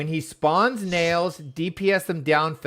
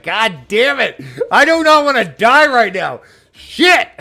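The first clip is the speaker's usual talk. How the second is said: mock furious yelling, high and loud; hammed-up angry shouting, pitched high; mad, irritated captain; 9 semitones higher, 11 dB louder than usual. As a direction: imitate a fed-up captain's outburst. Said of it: "mad to the end".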